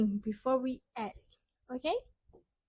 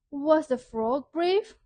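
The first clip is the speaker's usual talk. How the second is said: lively question; 3 semitones higher, 4 dB louder than usual. Shown as a demonstration. Teacher quizzes children on the story, lively. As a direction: pitch it up to draw the children in. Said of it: "question number three".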